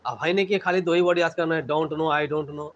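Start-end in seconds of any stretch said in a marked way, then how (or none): 1.7-2.7 slow, dragged mocking repeat; teacher mocking students who learn only two words, slowly; slow mock drone. Shown as a demonstration. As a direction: drag it out like a lazy student. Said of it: "teacher mocks lazy rote phrase".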